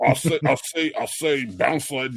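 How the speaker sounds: fully committed, exaggerated cartoon rooster voice. Answering a question about bounce lighting: Foghorn Leghorn voice. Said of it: "I turned into Foghorn Leghorn".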